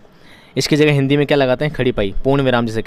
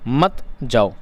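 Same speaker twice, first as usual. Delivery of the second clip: "मत जाओ" as its own lower phrase; group "मत" with "जाओ", after a pause; separate after comma; 3 semitones lower, much slower than usual. Shown as a demonstration. Teacher finishing the comma example, "मत जाओ" kept apart. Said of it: "फिर लगाया comma".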